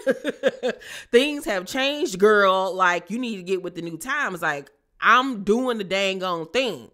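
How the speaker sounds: high, sassy voice with a laugh in it; a high mock-sassy brother; imitating Neek. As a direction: play him way up high and breezy. Neek explaining to his sister.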